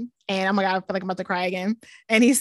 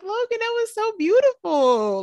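high, gushing retold praise; touched mom, close to happy tears; tearing up; 9 semitones higher than usual. Mom praising her son's kindness, tearing up. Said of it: "tearing up".

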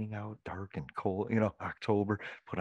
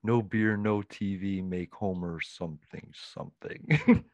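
mock Homer; slower than usual. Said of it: "The Simpsons version of it".

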